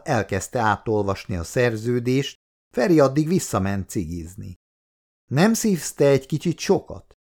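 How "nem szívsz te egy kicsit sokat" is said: higher-pitched, mildly called-out question; raised-voice question. A narrator's reading. Péter asks Feri out on the terrace, mildly calling out. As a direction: call it over lightly, pitched up. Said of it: "kérdezte hangosan Péter".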